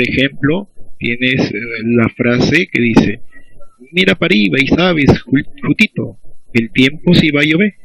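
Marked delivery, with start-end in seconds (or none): 3.9-7.7 Afro-Peruvian accent. Shown as a demonstration. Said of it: "expresión clásica de la comunidad afroperuana".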